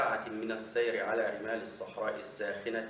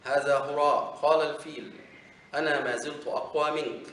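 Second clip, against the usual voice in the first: scornful outburst; 3 semitones higher, 5 dB louder than usual. Acted. Elephant dismisses the camel.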